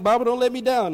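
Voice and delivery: mock plea, lifted high; half-joking plea to the Bible; pleading with the Bible. Pastor lost in the pages, mock pleading with his Bible. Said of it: "I'm like".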